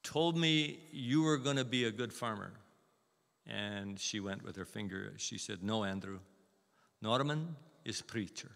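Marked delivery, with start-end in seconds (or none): 0.0-2.5 put-on light Polish-accented grandmother. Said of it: "in Polish accent, she said". 5.6-8.5 a hint of Polish grandmother; Polish accent. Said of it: "in Polish accent, she said".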